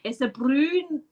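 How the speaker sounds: slow learner's Scottish; halting try at Scottish; attempted Scottish accent. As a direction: copy a Scottish phrase carefully. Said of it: "I need to copy what you say".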